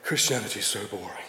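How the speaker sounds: put-on moping teenager. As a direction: drag it out like a bored teen. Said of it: "burst back in the room and say".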